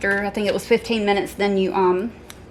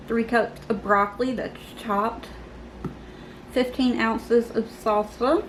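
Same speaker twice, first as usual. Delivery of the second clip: numb mouth after surgery; numb from the dentist; 3 dB quieter than usual. Real, not acted. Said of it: "my mouth is still numb from".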